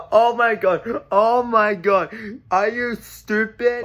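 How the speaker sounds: slow, laughing disbelief; laughing incredulously. Acted. Bystander ridicules a clueless Tesla owner, laughing incredulously. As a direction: gasp it out through mocking laughter. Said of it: "why are you laughing".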